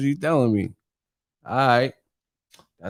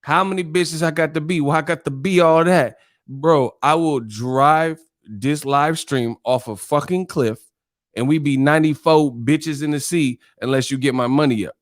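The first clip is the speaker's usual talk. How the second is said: Martin-style mock tirade; Martin rant; 2 semitones higher than usual. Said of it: "like Martin said".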